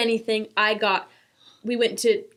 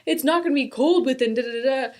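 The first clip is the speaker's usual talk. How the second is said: sarcastic; 4 semitones higher, 4 dB louder, faster than usual. Retold or imitated. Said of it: "still being sarcastic".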